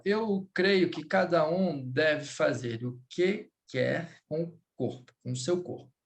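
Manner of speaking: "eu creio que cada um" lido devagar, como frase inteira; entonação natural do português. Shown as a demonstration. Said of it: "Entenda que a entonação do português". (entonação de português falado, pausada)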